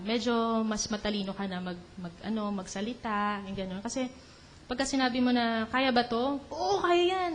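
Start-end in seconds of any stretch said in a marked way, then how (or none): 5.7-7.3 quick, sure yes with the pitch jumping up; cocky young self. Retold or imitated. Young person asked if they can do it, cocky and sure. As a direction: brush off the doubt like a brash youngster. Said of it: "Nung bata ka pa, ganun ka".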